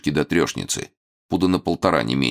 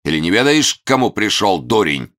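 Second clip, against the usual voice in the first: mock evil villain; 7 semitones higher, 5 dB louder than usual. Hermit terrifying Eropkin.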